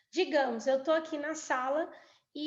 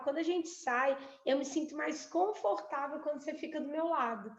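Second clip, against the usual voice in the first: appreciative request; 3 dB quieter than usual. Shown as a demonstration. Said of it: "de eu elogiar e falar".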